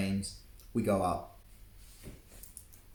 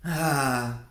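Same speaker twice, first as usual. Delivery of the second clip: laughing; 5 semitones higher, 5 dB louder than usual. Acted. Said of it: "wiped a tear from his eye".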